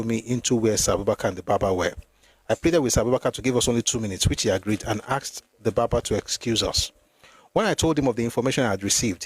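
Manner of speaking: measured, formal reading from a book; read-aloud narration. Acted. Reader recounting the night of the mutiny to listeners, read-aloud narration. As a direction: read the account out evenly, phrase by phrase.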